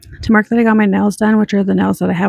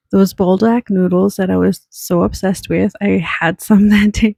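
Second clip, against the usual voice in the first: laughing slowly. Real, not acted. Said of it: "I just need to take a little breather here".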